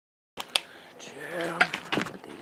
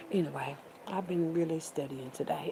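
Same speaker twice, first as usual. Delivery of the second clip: whisper; 3 semitones lower, 6 dB quieter than usual. Real, not acted. Sudden aside to viewers.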